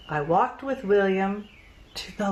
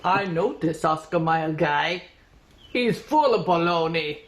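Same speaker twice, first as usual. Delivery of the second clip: put-on German accent. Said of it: "fake German accent, like Mister Koenig's".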